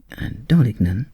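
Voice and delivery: ordinary delivery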